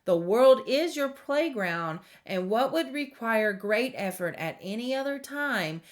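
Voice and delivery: measured oracle reading with lifted key phrases; reading aloud. Real, not acted. Card reader reading middle world message to viewers, measured reading aloud. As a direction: read the guidance out deliberately, phrase by phrase.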